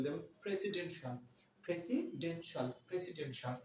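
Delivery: প্রেসিডেন্সিয়াল with a pressed P at the start; stress on P. Shown as a demonstration. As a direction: punch the P in প্রেসিডেন্সিয়াল. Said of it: "পি এর উপর একটু চাপ প্রয়োগ করবো".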